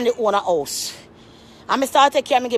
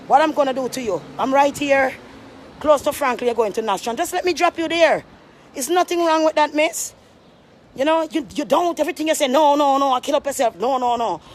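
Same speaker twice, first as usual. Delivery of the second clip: lightly voiced pushy old man, pitched up; 5 semitones higher than usual. She imitates the old man pushing a ride, mildly higher. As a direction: mimic the old man's wheedling.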